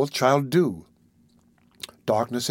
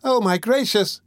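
high-pitched woman's exclamation; lamenting young woman; 9 semitones higher than usual. A narrator's reading. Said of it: "loud lamentations from the young woman".

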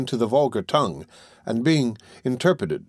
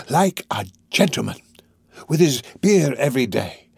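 Fagin, coaxing; 2 semitones higher than usual. Acted. Fagin promising comforts for the jailed lad, coaxing. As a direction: draw out each promise with relish.

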